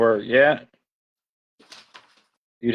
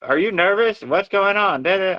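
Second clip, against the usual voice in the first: lightly voiced wife; 7 semitones higher than usual. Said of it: "She said".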